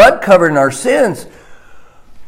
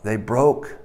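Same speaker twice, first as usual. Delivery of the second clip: low, soft words spoken as God; hushed, low divine monologue; 7 semitones lower, 8 dB quieter than usual. Acted. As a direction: voice God's thoughts quietly and low. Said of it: "In God's eyes, it's about".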